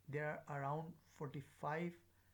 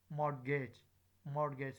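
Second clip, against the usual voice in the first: "mortgage" punched loud on "mor"; stress on first syllable; 5 dB louder than usual. Shown as a demonstration. Teacher drilling strong forms, stressed "mor" in "mortgage". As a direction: hit "mor" in "mortgage", let the end fall. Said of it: "here is the stress on the word mo".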